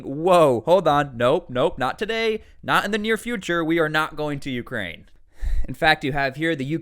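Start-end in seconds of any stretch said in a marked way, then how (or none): 0.0-5.0 loud "whoa, hold on" that settles into a mock-firm denial; hammed-up prime minister hitting the brakes; mock hasty backpedal. Prime minister quickly walking back troop talk, mock-alarmed loud. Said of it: "you have the prime minister saying".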